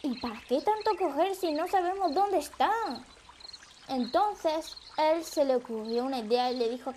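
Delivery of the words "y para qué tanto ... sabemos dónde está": higher-pitched exasperated question; mildly indignant, higher voice; infuriated. Acted. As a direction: demand it with mild anger, pitch raised. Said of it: "Cola Pinosa enfurecido le dijo".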